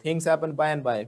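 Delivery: slowly stretched model sentence; slow demonstration. Shown as a demonstration. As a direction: lead the class through it slowly. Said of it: "क्योंकि चीजें होती हैं धीरे धीरे".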